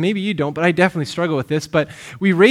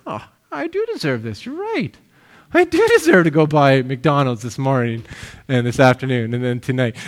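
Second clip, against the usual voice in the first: mock smug consumer; 4 semitones lower than usual. Preacher mocking a flattered shopper, smug and hushed. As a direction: play the flattered shopper convinced they deserve it. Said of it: "we're like".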